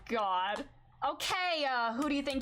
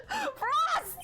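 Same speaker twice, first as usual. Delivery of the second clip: shrieked name, very high; high shout; 3 dB louder than usual. Real, not acted. Startled to see Frost, shrieked name. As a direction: call out the name at full pitch.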